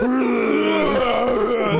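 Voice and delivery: loud cartoonish retching noise; imitated hurling. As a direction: heave like a cartoon drunk. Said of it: "Like, it was like".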